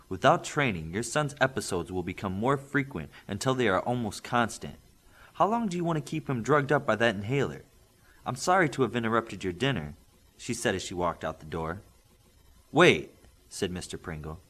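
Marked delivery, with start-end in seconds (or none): 0.1-9.9 serious. Acted. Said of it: "changed her tone and was very serious". 12.7-13.1 louder sudden call. Acted. Father calling after the visitor, loud.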